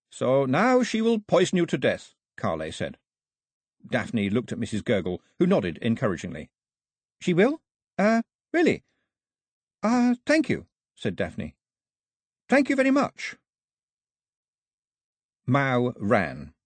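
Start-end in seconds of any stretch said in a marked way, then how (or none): 0.1-2.1 put-on higher, earnest young translator voice; Carley's voice. A narrator's reading. 7.2-10.7 put-on much higher, stammering girl's voice; startled Daphne. A narrator's reading. 12.5-13.3 put-on much higher, stammering girl's voice; startled Daphne. A narrator's reading. Daphne again.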